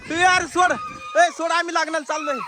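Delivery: high, urgent demand; panicked pleading shout. Acted. Father tells ghost to release mother, panicked shout. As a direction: shout at it to let go.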